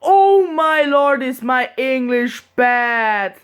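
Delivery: a slow, loud groan of embarrassment at her own English; drawn-out cry of cringing dismay; dismayed exclamation. Real, not acted. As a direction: wail it, mortified. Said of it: "when I listen to it".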